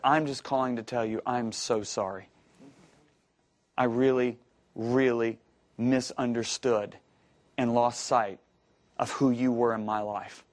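low apology with long pauses; retold earnest apology. Former employee calling to say sorry to his boss, earnest. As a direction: apologise soberly, letting each phrase settle.

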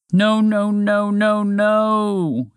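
high, loud moaning no's; moaning moose. Acted. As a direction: moan in despair at the lost antlers. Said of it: "he moaned".

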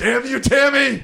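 very high, loud, drawn-out curse; mock angry yell. Cursing Tammy for interfering, mock high-pitched yell. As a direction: cry it out in hammed-up outrage.

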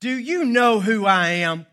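high, forceful mock indignation; indignant. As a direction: throw your weight around, loudly. Preacher re-quotes the indignant line.

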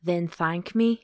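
slow Scottish hero's line; lightly Scottish, drawn-out invitation; Scottish accent. Acted. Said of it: "Scottish accents are so sexy".

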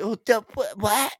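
mock surprise.

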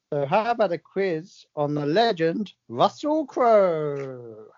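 rhyming poem read in a steady, lightly performed way; poem recital. Acted. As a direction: recite the comic verse with a gentle rhythm. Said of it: "my poem of the week".

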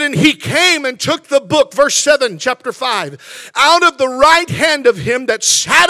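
declaimed Bible reading with punched key words; scripture reading. Real, not acted. Preacher reads Revelation to the congregation, declaimed with preaching force. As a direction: proclaim the verse in strong, measured phrases.

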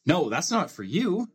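lively rhyming storybook reading with playful swings; reading to children. A narrator's reading. Dad reading a Seuss book to his child, lively storybook voice. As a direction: read it like a bedtime picture book, bouncing the rhymes.

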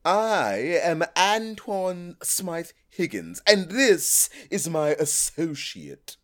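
slow, plummy self-important host; pompous snob host. Acted. Snob hosts greeting their podcast audience, slow and grand. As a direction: announce yourselves like old-money snobs. Snobbish hosts introduce themselves.

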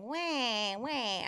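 mock baby crying sounds; fake toddler wail. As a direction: pretend toddler tantrum wail. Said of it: "I'm just making the sounds".

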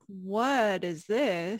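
very slow, puzzled question; baffled, slow. Retold or imitated. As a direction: drag it out in confusion. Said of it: "I was like".

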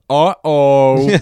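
loud nervous uh-oh; worried staff voice. Retold or imitated. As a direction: blurt it like panicked staff. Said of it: "staff just going".

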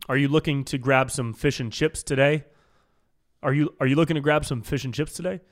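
British phrasing in an American accent. Shown as a demonstration. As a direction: deliver British small talk with American pronunciation. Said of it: "but with an American accent".

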